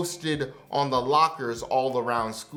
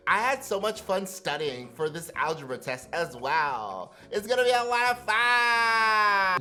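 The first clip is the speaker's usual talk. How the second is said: bright, bubbly overachiever; peppy student voice; 5 semitones higher than usual. Acted. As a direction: gush like a cheery student. Imitating peppy overachiever kids.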